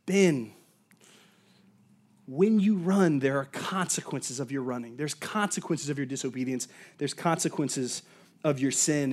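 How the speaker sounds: low, soft, gentle admonition; tender but sober, hushed and unhurried; loving father. Retold or imitated. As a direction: voice a loving father's quiet warning. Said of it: "I have a loving father".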